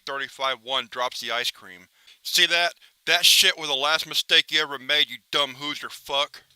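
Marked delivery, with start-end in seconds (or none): 2.2-6.4 gloating threat to a hapless victim; menacing villain taunt. Acted. Villain taunts the man who dropped the ice cream, gloating menace. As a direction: sneer it like a cartoon villain who just won.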